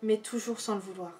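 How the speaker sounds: measured poem reading with long pauses between verses; poetry reading. Acted. Reading favourite poems aloud to viewers, measured poetry recital.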